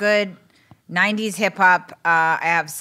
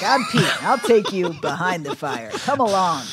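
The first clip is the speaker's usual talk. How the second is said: mock show host introducing himself; lightly voiced TV host. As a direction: invite viewers along like a hint of a TV presenter. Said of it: "a T V show called Behind the Fire".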